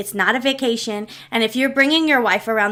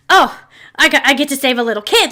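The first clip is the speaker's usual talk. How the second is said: shocked and invested; 3 semitones higher, 4 dB louder, faster than usual. Retold or imitated. Mom spotting a little kid to save, shocked and invested. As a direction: imitate mom's sudden eager interest. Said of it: "shocked and invested immediately".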